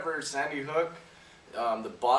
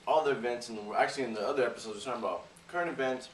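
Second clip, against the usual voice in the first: talking with a mouth full of food; words muffled around a mouthful of food; faster than usual. Real, not acted. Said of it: "I'm talking with my mouth full here".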